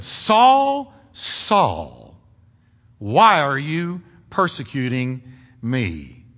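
lightly voiced solemn divine rebuke; voice of God. God confronting Saul on the Damascus road, solemn reproach. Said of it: "knocked him to the ground and said".

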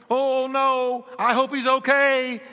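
high, alarmed retelling; worried outcry. Retold or imitated. Friends racing back for forgotten Johnny.

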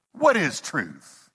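slow, drawn-out disdain; disgusted. Retold or imitated. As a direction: drag the question out as if the idea repels you. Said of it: "I think he was disgusted with the notion".

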